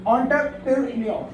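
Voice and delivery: British एंटरप्रेन्योर with an "on" start, in pieces; British pronunciation. Shown as a demonstration. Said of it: "बोला जा रहा है ओ".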